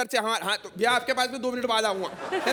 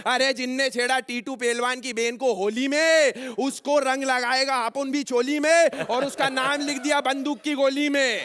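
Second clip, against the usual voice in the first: rhymed boast, each line-end drawn out; filmy threat dialogue. Acted. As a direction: deliver a tough-guy rhyme like a movie dialogue. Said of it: "हम इंदौरी केवल dialogue बोलते हैं भैया". (फ़िल्मी dialogue वाली तुकबंद धमकी)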